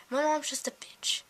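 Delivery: unvoiced hushed jab; whispered aside. Real, not acted. A teen whispering a complaint about her mom to viewers. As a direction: drop to a whisper for the insult.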